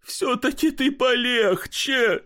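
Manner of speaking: whining plea. Acted. Pochechuev to barber, in a tearful high whine. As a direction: beg him to go easy, near tears. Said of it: "плачущим голосом".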